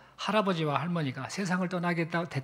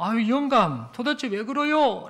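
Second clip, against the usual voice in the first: exasperated, raised and drawn-out questioning; dumbfounded old wife; 4 semitones higher, 4 dB louder than usual. Acted. Wife questioning her suddenly shouting husband, dumbfounded. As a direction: demand an explanation, higher and louder. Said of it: "할머니도 황당해가지고".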